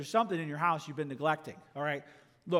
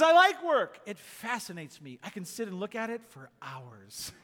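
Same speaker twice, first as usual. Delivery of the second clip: humorist's deadpan joke. Retold or imitated. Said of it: "a quote from a British humorist".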